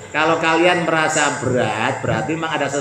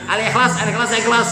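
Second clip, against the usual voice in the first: imitating student; 6 semitones higher, faster than usual. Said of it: "Kris, jangan lupa baca Ikhlas".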